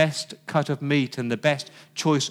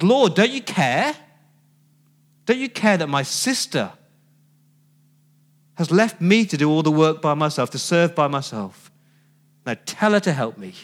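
mock indignant complaint. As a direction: complain to Jesus as if wronged. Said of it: "comes storming up to Jesus".

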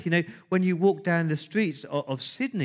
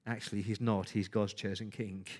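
ordinary talk, nothing marked

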